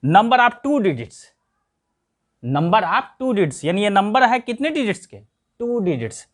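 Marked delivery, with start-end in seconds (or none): 0.0-1.2 number of two digits said slowly, two stressed; slow, clear classroom read-out; teacher spelling out the English term slowly; slow teaching recital. Shown as a demonstration. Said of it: "मतलब". 2.4-3.6 number of two digits repeated slowly and a little softer; quiet slow echo for the class; teacher repeating the English term slowly. Shown as a demonstration. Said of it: "मतलब".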